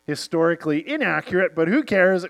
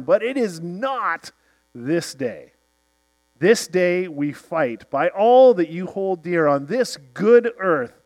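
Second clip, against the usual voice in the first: rallying speech. Retold or imitated. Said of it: "and he says".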